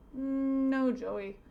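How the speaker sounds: drawn-out, emphatic "No"; a hint of a firm pastor; lightly voiced pastor. Pastor answering the boy, lightly voiced and emphatic.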